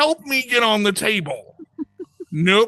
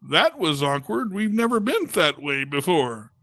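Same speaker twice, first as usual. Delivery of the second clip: low, softer muttering legs; talking legs; 5 semitones lower, 4 dB quieter than usual. Acted. Legs to each other after the procedure, lightly voiced low complaint. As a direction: grumble quietly as a pair of legs. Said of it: "I remember my legs going".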